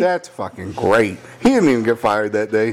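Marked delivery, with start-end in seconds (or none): 0.0-1.2 dry sarcasm. Retold or imitated.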